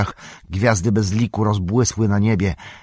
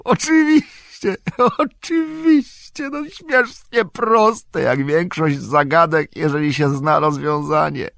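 much higher, louder and slow, delighted; elated cry; 11 semitones higher, 5 dB louder, slower than usual. A narrator's reading. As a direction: savour the obvious answer aloud. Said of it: "krzyknął".

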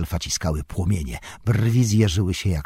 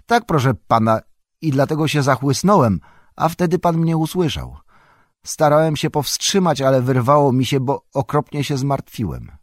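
Sam confesses; 7 semitones higher, 4 dB louder than usual. A narrator's reading.

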